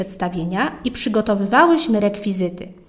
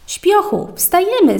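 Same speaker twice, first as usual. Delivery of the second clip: high, bright call to a sleepyhead; cheerful wake-up call; 9 semitones higher than usual. Acted. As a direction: sing it out to wake her friend. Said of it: "zawołała rano Natka". (radośnie wołając śpiocha)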